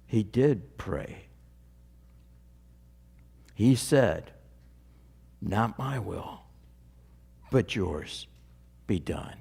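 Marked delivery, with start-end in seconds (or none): 5.4-9.4 soft, low, reverent prayer; hushed prayer. Acted. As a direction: pray it gently, almost to yourself. Jesus's prayer quoted reverently.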